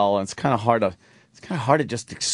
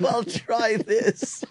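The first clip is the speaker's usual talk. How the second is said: mock Bond line; 11 semitones higher, much slower than usual. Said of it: "S1 repeats the Bond line".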